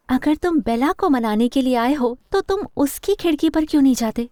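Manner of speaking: a touch of annoyance at an unwelcome visitor; irritated. Acted. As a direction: put out, challenging the visitor. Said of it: "हैरानी से ज्यादा चिढ़".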